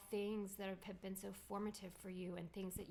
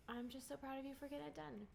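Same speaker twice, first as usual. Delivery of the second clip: teary; 5 semitones higher, 7 dB quieter, faster than usual. Real, not acted. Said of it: "these are happy cries".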